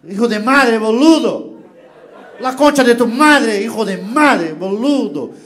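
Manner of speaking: loud Argentine Spanish insults, slow on concha; angry Argentine cursing. Retold or imitated. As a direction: spit it out like an Argentine driver. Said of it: "o próprio argentino".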